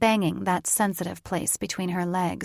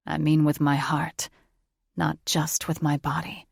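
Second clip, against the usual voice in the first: male lover voice; 3 semitones lower than usual. Acted. Thaddeus voiced lower.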